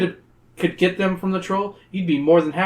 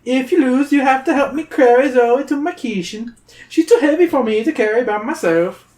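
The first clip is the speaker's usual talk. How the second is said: sly troll; 10 semitones higher, 4 dB louder than usual. Acted. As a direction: tempt them like a greedy little troll.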